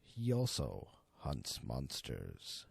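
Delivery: measured, suspenseful storyteller read; story narration. A narrator's reading. Narrator telling his viewers the horror tale, suspenseful narration.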